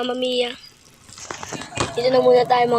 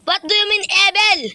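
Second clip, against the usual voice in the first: much higher shocked question; alarmed surprise; 8 semitones higher, slower than usual. Acted. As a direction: react in startled disbelief. Reacting to evil warning.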